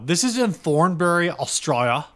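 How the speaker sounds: put-on Australian accent. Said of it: "Don't ever try to do an Australian accent again".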